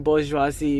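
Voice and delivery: bourgeoisie said in full as boozh-wah-ZEE; French-style bourgeoisie, ending on ZEE; French pronunciation. Shown as a demonstration. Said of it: "because I am part French".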